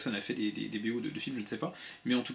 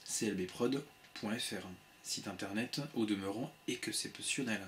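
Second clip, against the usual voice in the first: slower speech; 2 semitones lower, 4 dB quieter than usual. Shown as a demonstration. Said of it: "quand on parle plus lentement".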